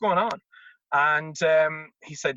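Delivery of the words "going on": high-pitched bewildered quote; retold confusion. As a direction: act out coming round, lost and higher. Retold waking up confused in hospital.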